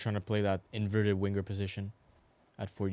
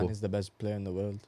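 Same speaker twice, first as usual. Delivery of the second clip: put-on Scouse accent. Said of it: "can I get a Scouse accent".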